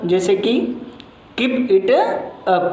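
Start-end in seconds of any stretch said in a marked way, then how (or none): 1.4-2.6 "Keep it up" starting high, falling at the end. Shown as a demonstration. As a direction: drop the voice on "up". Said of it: "last में वो आवाज़ कम हो जाती है". (गिरती tone में "Keep it up")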